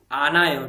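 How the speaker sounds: आनायो said as a-na-yo, smooth with no h; correct Korean reading. Shown as a demonstration. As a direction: glide straight through आनायो. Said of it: "आनहायो नहीं पढ़ना है".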